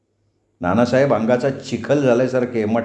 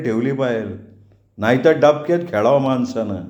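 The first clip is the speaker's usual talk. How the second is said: a lightly higher-voiced old man coaxing the boy; old Chachaji; 4 semitones higher than usual. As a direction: gently urge him as a worried old father figure.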